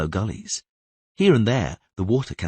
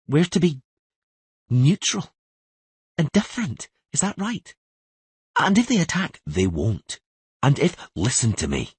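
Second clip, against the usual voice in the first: put-on much higher girl's voice, indignant; Ciri arguing; 8 semitones higher than usual. Ciri protesting about staying neutral, high and indignant.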